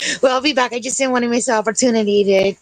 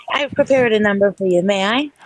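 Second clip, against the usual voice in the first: put-on old speech synthesizer. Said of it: "fake A I female perspective".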